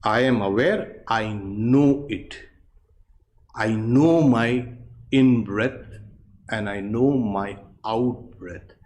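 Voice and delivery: slow, calm inner mantra; silent thought. Shown as a demonstration. Teacher guiding students through the silent thought, slow and calm. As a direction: let each phrase settle slowly. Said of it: "Keep a silent thought".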